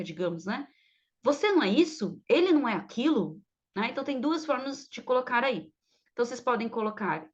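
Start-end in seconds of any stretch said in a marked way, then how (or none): 1.2-3.4 "Você não é isso?" with swooping question tune; rhetorical question. Shown as a demonstration. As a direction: swing the pitch on "isso" and "aquilo". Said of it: "uma pergunta retórica". (pergunta retórica)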